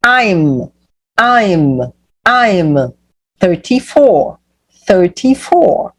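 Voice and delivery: "I'm" and "thirty-four" stretched out, with pauses; slow pronunciation model. Shown as a demonstration. Teacher models the age answer for learners, slow pronunciation model. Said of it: "Olha aqui, ó".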